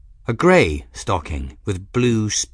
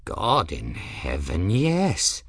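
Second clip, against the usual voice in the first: put-on exasperated old man; 3 semitones lower, slower than usual. Ferris exasperated.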